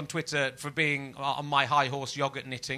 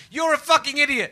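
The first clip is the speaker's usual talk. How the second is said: insult; 11 semitones higher, 7 dB louder than usual. Retold or imitated. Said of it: "Freedom of speech isn't going".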